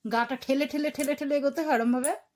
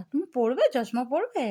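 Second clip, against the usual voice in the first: ordinary delivery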